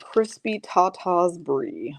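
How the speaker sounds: "Crispy Tata's Brie" drawn out slowly, word by word; savored slowly. Shown as a demonstration. Repeating the viewer's nickname back, slow and savored. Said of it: "That's the one".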